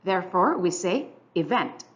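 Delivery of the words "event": "event" with more emphasis on "vent"; stress on second syllable. Shown as a demonstration. Teacher showing syllable stress, "event" stressed on "vent". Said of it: "our second syllable receives more emphasis".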